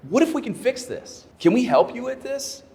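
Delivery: high-pitched, hopeful retold offer; eager offer of help. Manager offering to fix an employee's problem, eager to help. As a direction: pitch it up as a gentle proposal.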